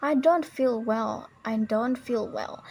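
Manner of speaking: slow, with DON'T stretched and stressed; stressed important words. Shown as a demonstration. Teacher demonstrates American emphasis, slow stressed DON'T. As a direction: linger on DON'T. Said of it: "also emphasizes important words".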